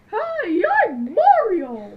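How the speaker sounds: high "Hey", then slow "I'm Mario"; hammed-up Mario, stretched out. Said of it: "Mario sounds like".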